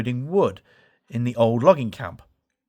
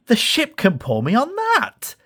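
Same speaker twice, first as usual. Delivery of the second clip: higher, perky little-engine voice; eager puff; 9 semitones higher than usual. Acted. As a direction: pitch it up, keen to go. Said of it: "Thomas puffed".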